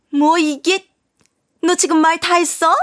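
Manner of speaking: indignant mother-in-law. Acted. Mother-in-law snapping back at her ex-daughter-in-law, indignant. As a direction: bristle like an insulted mother-in-law.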